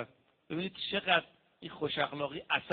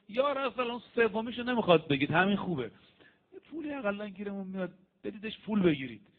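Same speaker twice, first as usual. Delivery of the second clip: higher, pushy voice, a hint of greed; eager greedy companion; 5 semitones higher, 4 dB louder than usual. Companion urging the Prophet to take ransom, eager and pushy. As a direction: press the Prophet for the money, half-mocking.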